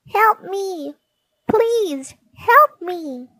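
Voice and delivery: very high, thin pleading cry for help; a tiny fairy trapped in a web calls out, very high. Acted. Fairy stuck in a spider's web begs for help, very high and pleading. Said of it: "a tiny, tiny cry".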